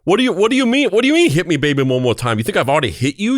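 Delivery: mock outrage, high burst settling into a rant; hammed-up, offended New York tirade; angry Paul Sorvino. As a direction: play a man appalled by the accusation. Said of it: "extremely angry about everything all the time".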